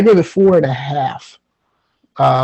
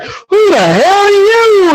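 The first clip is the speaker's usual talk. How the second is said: mock disbelief; 4 dB louder, slower than usual. Mock reaction to character switch.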